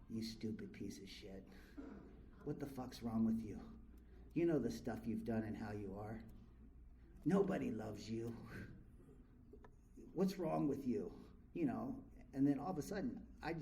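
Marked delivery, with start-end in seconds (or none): 0.1-11.1 low, quiet self-abusing inner voice; inner critic voice. Retold or imitated. Replaying the cruel voice in his head, low and hushed. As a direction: mutter the old tapes to yourself. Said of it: "These tapes started playing".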